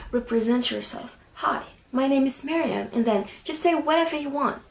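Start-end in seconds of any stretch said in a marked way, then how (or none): 1.3-2.9 clean, assured hello without hesitation; steady, self-assured self-introduction; confident introduction. Shown as a demonstration. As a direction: introduce yourself openly, no fear. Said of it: "raise your tone of voice. You shouldn't be scared".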